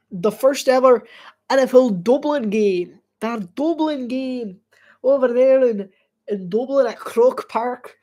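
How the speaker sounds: put-on Irish brogue; Irish accent. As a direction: lay on a playful Irish accent. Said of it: "how my Irish accent got this good".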